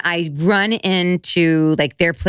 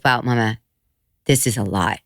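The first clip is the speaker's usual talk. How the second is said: younger son; 6 semitones lower than usual. Retold or imitated. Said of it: "He's the younger one".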